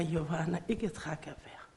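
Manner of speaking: barely voiced, breathless and soft; breathless whisper. Telling her daughter she can't breathe, in a breathless whisper. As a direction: whisper it as if no air is left.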